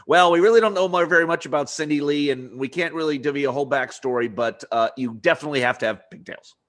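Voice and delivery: brisk, loud put-on exec voice, lightly done; mock executive voice. Co-host mocking the network executive, brisk mock boss voice. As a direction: play the clueless boss, fast and breezy. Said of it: "I'll always put effects on my voice when I'm talking to, you know, like, the executive".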